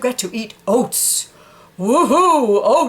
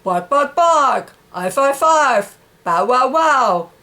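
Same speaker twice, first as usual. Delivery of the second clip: barking; 2 semitones higher, slower than usual. Shown as a demonstration. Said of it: "and so forth".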